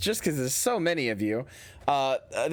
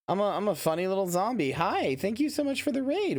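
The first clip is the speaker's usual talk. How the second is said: cutesy zombie voice; 6 semitones higher than usual. Pretend. Cute zombie vtuber intro.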